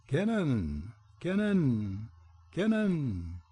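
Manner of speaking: high, piercing bird cry; a bird's shrill battle cry over the castle gate; shrill pheasant scream. A narrator's reading. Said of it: "screamed with a shrill voice".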